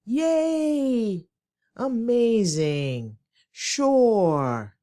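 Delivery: long drawn-out, falling mock cheer; sarcastic stretching. Shown as a demonstration. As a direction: stretch each word out sarcastically. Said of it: "Sarcasm often stretches words for the effect".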